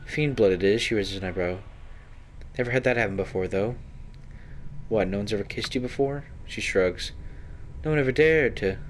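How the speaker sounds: bravado from a rogue nobody dared kiss; lightly voiced proud Anna. Anna telling the hero no one dared kiss her, lightly boastful.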